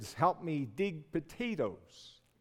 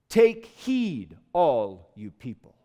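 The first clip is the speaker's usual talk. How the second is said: calling to a crowd; 3 semitones lower, 6 dB louder, slower than usual. Acted. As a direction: call out a solemn warning to everyone. Prophet calls out to the crowd.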